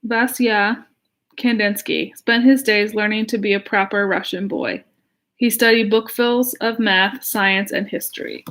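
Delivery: put-on lively read-aloud to children; story reading. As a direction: read it like a picture book for kids. Reads picture book aloud.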